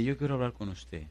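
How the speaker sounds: mild hushed mystic voice; mystical. Retold or imitated. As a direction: lightly voice a mock-mystic man. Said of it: "Tipo así como medio místico, medio profundo". (imitando suave a un tipo místico)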